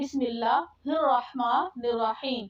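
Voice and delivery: slow, careful recitation; teacher modelling slow recitation. Shown as a demonstration. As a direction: recite each word slowly and carefully. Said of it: "بہت احتیاط کرنی ہے".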